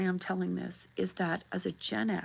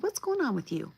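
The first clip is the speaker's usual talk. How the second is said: higher, gently concerned question; tender concern; 5 semitones higher, faster than usual. Retold or imitated. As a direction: ask a small child gently, pitched up. Grandmother asking upset child, acted.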